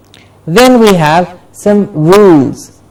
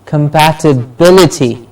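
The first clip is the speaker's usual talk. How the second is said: "compatibility" as com-pat-i-BIL-i-ty; stress on BIL. Shown as a demonstration. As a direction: model "compatibility", beat on "bil". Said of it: "Bil gets a stress".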